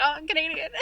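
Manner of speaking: put-on light Canadian accent, high; playful Canadian accent impression. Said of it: "he was Canadian".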